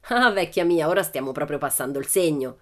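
loud, hammed-up indignation; mock indignant. Pippi scolding the teacher, mock indignant. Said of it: "si indignò Pippi".

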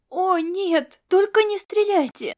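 high, loud pleading outcry; near-tearful cry. Acted. Girl crying out to the soldiers not to shoot, near tears. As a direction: beg them not to shoot, almost crying. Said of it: "выкрикнула девушка, чуть не плача".

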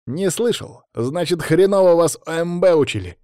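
emphatic, know-it-all verdict; self-important. A narrator's reading. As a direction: lecture him with importance. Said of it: "важно заявил Саня".

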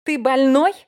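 loud, high yell; thundering yell. Acted. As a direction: bellow at him in disbelief. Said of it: "загрохотала за спиной Тесс".

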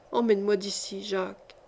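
soft plea, fading to almost nothing; barely audible, timid request; very low murmur. A narrator's reading. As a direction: plead under your breath, like a fearful child. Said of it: "dit tout bas, si bas que".

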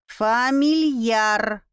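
"Фамильяр" said slowly and precisely; correcting. A narrator's reading. The bat correcting the girl's wrong word, pointedly. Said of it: "поправил меня летучий мышь".

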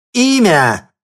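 very loud, high enraged bark; furious shout. A narrator's reading. Mistress demanding the name, furious shout. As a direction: demand it in a rage. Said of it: "бешено крикнула Иоланда".

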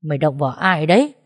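a menacing roar. Acted. Thành arriving to protect his wife, a mild roar. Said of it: "Người kia gầm lên".

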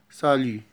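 Salut with silent final T; سالي, no T at the end; French salut. Shown as a demonstration. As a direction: say سالي ending on a clear i sound. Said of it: "التي لا تنطق في الآخر".

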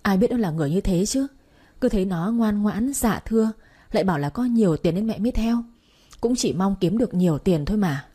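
mildly tearful self-excuse; understated acted crying; talking while crying. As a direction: plead your case, lightly weepy. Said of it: "vừa khóc vừa nói".

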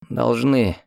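ordinary delivery

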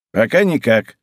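ordinary delivery

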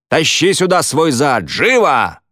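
high, loud barked order, slowed; angry order. Acted. Foreman ordering Danny into the office, angry shout. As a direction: bark him over, no patience.

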